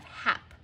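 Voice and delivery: HAP cut off as a syllable with short A; first syllable alone. Shown as a demonstration. Teacher divides the word, HAP as a lone syllable. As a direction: stop after HAP, short A. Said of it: "If we divide it between the two P's".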